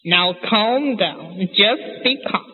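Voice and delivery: slow, drawn-out soothing words; lightly acted father calming his wife; Papa calming Mama. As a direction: stretch it out to settle her down. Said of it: "How does he say it?".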